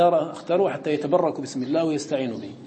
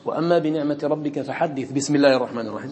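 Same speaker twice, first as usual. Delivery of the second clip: recited connected; 2 semitones lower than usual. Shown as a demonstration. Teacher demonstrates joining the surah end to the basmala, recited. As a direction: recite it joined without stopping. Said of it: "ها وصلتها".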